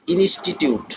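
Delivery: "ইনস্টিটিউট" slowly, broken into its syllables; ভাগে ভাগে উচ্চারণ. Shown as a demonstration. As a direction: sound out "ইনস্টিটিউট" part by part, ইনস-টি-টিউট. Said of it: "চারের অধিক". ("ইনস্টিটিউট" ধীরে, ভাগ করে উচ্চারণ)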